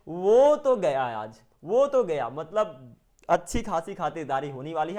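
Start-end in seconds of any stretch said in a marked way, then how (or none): 0.1-2.3 gleeful tease. Retold or imitated. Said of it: "आप कहते हैं".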